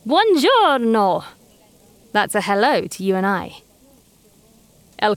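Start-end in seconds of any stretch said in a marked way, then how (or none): 0.1-1.2 slow, loud, higher Buongiorno; booming Buongiorno. A narrator's reading. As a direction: boom out a big cheerful greeting. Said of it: "a booming".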